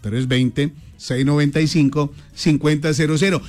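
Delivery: lento y marcado, número por número; cámara lenta. Shown as a demonstration. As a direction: dicta el número despacito. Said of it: "Se lo digo en cámara lenta". (en cámara lenta)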